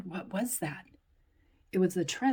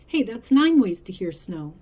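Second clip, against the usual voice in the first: excited; 9 dB louder than usual. Acted. Child excited discovery.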